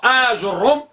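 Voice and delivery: آج الروم said with long Aa, jeem and Room; teacher demonstrates variant; first variant pronounced. Shown as a demonstration. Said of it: "البعض ينطق به".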